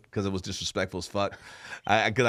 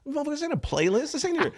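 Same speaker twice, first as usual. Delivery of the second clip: much higher, fast exasperated retort; mock angry snap; faster than usual. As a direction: fire it off at the heckler like he lost patience. Comic retells snapping at heckler.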